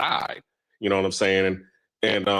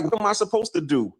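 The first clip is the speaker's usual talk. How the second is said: higher, pleading excuses; imitating a scared man's raised, helpless excuses; defensive man; 5 semitones higher than usual. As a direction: whine that he had no choice. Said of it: "He was like".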